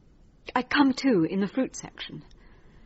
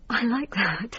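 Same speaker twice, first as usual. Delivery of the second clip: faint whispered approval; 3 dB quieter, slower than usual. Acted. Patient in trance whispering to her therapist. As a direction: breathe it out, barely there.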